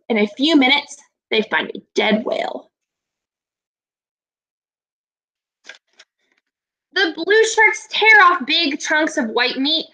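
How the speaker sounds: lively picture-book narration with dramatic turns; storytelling read-aloud. Acted. Teacher reading a shark book to her class, expressive storytelling. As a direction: bring the shark story alive for young listeners.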